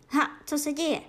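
startled out of sleep; startled awake. A narrator's reading. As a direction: jolt awake and ask. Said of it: "Vyletěl ze spaní".

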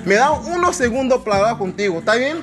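a hint of a Spanish accent, quick in places; mock Spanish. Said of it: "The brother said this in Spanish".

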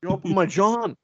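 high South Philly street-guy voice; South Philly accent. Retold or imitated. Batman confronting the guys behind him, mock South Philly accent. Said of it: "he's from, like, South Philly".

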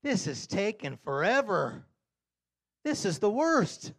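high, loud, slow; exasperated wail. Retold or imitated. Stuck in bank line, loud high impatient moan. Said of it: "that's what happens".

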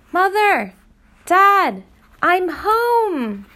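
high, loud joyful calls; boy bursting with joy at his front door; calling out. Acted. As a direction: shout for his parents through the door. Boy pounding on home door.

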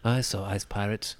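lightly voiced fan; a hint of a nerdy listener; imitating a listener. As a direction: tell it like an earnest fan. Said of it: "be like".

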